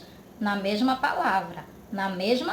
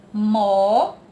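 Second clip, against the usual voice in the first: "Moeda" loud, syllable by syllable with pauses; split into syllables; 2 semitones lower, 6 dB louder than usual. Shown as a demonstration. Teacher dividing the word for pupils, "Moeda" slowly split into syllables. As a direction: break "Moeda" into mo, e, da, drawn out. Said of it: "Mas na hora de separar".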